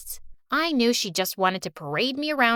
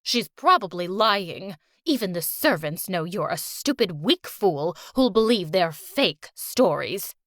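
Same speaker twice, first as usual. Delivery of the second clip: put-on sneering old grandma; 5 semitones lower than usual. Fake grandma sneering at Amelia, low and contemptuous. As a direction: belittle her daughter with scorn.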